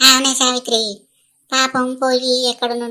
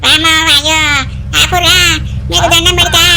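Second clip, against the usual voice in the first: loud, frantic mock panic; panicked pleading; 4 dB louder than usual. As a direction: beg for rescue while flying away. Grandma flying on rocket, panicking. (రాకెట్ మీద నుంచి భయంతో అరుస్తూ)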